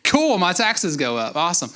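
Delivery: sarcastic. Pretend. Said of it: "That's what everybody wants to happen".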